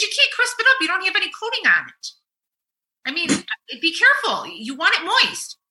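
wife snapping at husband about chicken. Retold or imitated. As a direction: scold him like the kitchen expert. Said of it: "I snapped".

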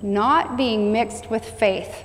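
repeated just as slowly, weight on Not; preacher repeating the line, very slow; slow echo. Shown as a demonstration. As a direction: let it sink in.

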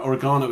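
OREGANO stressed on "GAH"; English OREGANO. Shown as a demonstration. Speaker explaining the English way, OREGANO with stressed GAH. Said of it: "is an English way of saying it".

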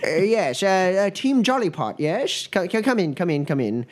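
lightly voiced, stammering gnome dean; harried dean greeting the team; flustered dean. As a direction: hurry them in while juggling Mila.

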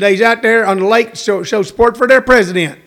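light mock Texan twang; imitated Texan accent. Retelling boaters supporting their president, light Texan accent. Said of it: "their accent and their intonation".

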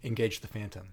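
deadpan command, no inflection; David Duchovny. Retold or imitated. Mocking an actor reading submarine orders, deadpan. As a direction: read the battle order as if it were nothing. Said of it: "everything is deadpan".

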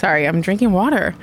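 talking into a straw; words muffled by a straw; sipping through a straw. Real, not acted. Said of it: "you can hear you talking into the straw".

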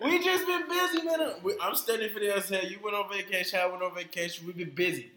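put-on Jamaican accent. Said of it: "get my Jamaican voice on".

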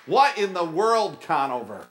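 loud, high cry breaking off the scene; imitated director's outburst; exasperated drama director. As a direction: shout like a fed-up director. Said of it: "my drama director's like".

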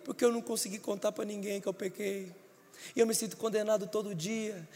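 mild whimpering confession; imitated crying. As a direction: lightly whine it as if still crying. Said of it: "por que que você tá chorando".

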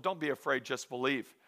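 low, hushed quoted reassurance; quiet reassurance. Retold or imitated. Jesus to the grieving father, softly reassuring. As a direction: read "Don't be afraid" softly and low.

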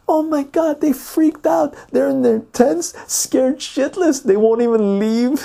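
very high-pitched mock squeal; hammed-up falsetto, stretching the big words; excited girl impression. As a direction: imitate a girl breathlessly dishing news. Acts girl reporting her friends' panic.

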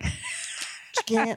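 breathy whisper of the line. Pretend. Cohost repeating the joke, last time in a whisper.

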